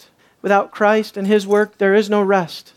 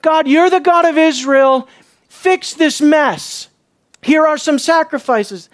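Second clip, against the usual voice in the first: demanding; 5 semitones higher than usual. Retold or imitated. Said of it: "what they have said is".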